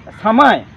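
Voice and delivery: समय as sa-maya, ya not ja; example word, stressed. Shown as a demonstration. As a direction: say समय loud, with a clear ya sound. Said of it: "जैसे".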